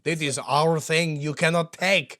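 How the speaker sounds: slow, lightly put-on Romanian accent; a vague mock Romanian accent, drawn out. Co-host joke about Romania's copyright, in mock Romanian accent. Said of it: "if that's remotely Romanian".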